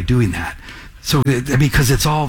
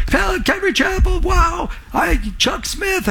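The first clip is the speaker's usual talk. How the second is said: much higher, gushing starstruck voice; gushing stranger; 14 semitones higher than usual. Retold or imitated. Stranger on the street hearing about Calvary Chapel, gushing high. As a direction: play an awestruck ex-churchgoer hearing the name.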